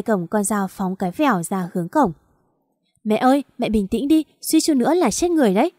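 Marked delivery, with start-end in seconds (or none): 3.0-5.7 frightened plea. Acted. Daughter begging furious mother.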